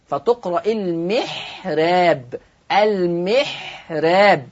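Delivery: المحراب slow, ra kept light and thin. Shown as a demonstration. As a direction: Warsh recitation of المحراب. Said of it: "را مش را".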